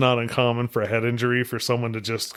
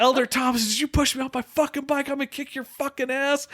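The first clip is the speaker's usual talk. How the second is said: much higher-pitched hammed-up swearing tirade; mock cussing rant; 12 semitones higher than usual. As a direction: act out a head-injured guy cursing at his companion. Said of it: "I was just cussing and swearing".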